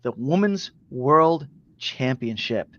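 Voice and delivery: slow, spaced-out main event introduction; measured ring-announcer delivery; announcer build-up. Acted. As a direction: announce the title match grandly, pausing between names.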